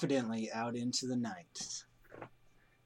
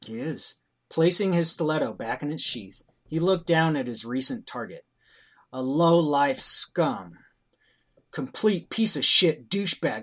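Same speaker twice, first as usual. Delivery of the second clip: story narration. A narrator's reading.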